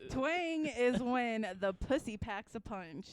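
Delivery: slow dramatic reading. Shown as a demonstration. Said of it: "reading a definition aloud".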